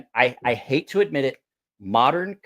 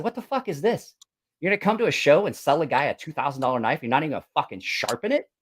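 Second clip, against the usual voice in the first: angry confrontation; 2 semitones higher than usual. Retold or imitated. Confronting the knife maker at the show, retold indignant outburst. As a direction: bite into the maker, incredulous.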